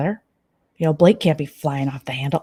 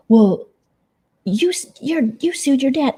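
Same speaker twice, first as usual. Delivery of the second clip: high, whiny, taunting mock of Jen; mock high catty voice; 8 semitones higher, 4 dB louder than usual. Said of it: "she's like".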